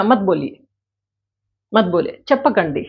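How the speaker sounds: coy, fussy "मत बोलिए" with a put-on tantrum; pouty, teasing refusal; playing hard to get. Shown as a demonstration. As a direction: say "मत बोलिए" like you're throwing a little tantrum. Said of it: "मैं यहाँ नखरे दिखा रही हूँ".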